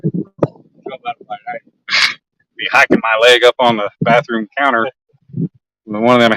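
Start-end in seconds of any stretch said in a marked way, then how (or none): 0.0-1.6 slow, stretched high repeat; drawn-out repeat. Pretend. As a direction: drag the words out slowly.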